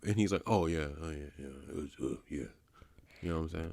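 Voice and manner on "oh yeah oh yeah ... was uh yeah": much softer, lower, flustered mumble; meek mumble. Retold or imitated. The scared man answering back, a soft flustered mumble. Cowed man's meek reply.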